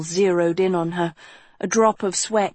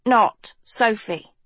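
nervous gulp; 3 semitones higher, slower than usual. Acted. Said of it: "Hort gulped".

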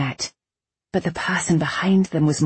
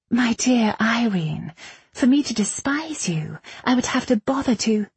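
lofty, higher-pitched scorn; disdainful rival; 7 semitones higher than usual. A narrator's reading. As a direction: talk down to a despised colleague. Bradamant disdainfully answers Irene.

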